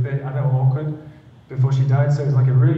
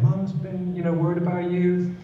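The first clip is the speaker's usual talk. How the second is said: retold sobbing plea; 4 semitones higher than usual. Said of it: "I was bawling my eyes saying".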